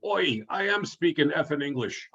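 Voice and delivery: half-hearted yell in amateur Cockney; mock Cockney yell. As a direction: imitate a yelling customer in rough Cockney. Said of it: "he was yelling".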